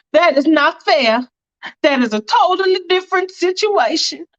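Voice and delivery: high, emphatic objection; object, stressing word by word; acted offended insistence; indignant protest. Indignant reply in quarrel.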